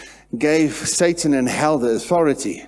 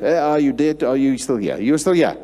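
loud, raised mimicry of a little boy's hero; kid imitating hero; 3 semitones higher, 5 dB louder than usual. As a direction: play the kid copying his hero's attitude and intonation. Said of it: "with an accent of that hero".

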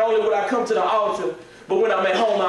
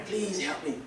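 retold crying plea; 3 semitones higher, 10 dB quieter, slower than usual.

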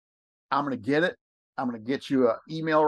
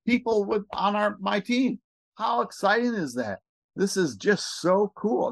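excited; 6 semitones higher than usual. Real, not acted. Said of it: "And I'm just excited".

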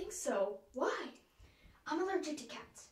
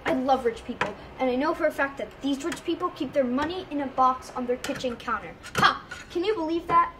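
gleeful crook; 9 dB louder than usual. Acted. Gleeful burglar in the story.

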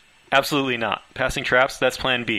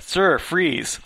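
loud, higher barked order; guard shouting freeze; commanding shout; 5 semitones higher, 5 dB louder than usual. Acted. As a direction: stop the intruder cold with a command. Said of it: "Leroy's voice held unexpected command".

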